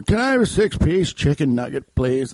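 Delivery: lightly voiced old man; a hint of an elderly customer. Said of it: "That's an old man voice".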